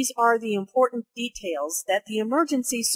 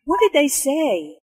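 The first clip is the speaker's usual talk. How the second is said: "say" emphasized, pitch falling at its end; higher voice, falling on "say"; emphasis on SAY, falling; 4 semitones higher, 3 dB louder than usual. Acted. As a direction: stress "say" and let it drop. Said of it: "Notice how say is emphasized".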